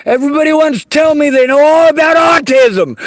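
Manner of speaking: angry shout. Real, not acted. Rant about autism condescension.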